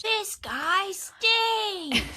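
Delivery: mock disgust. Real, not acted. Cohost mocking the driver.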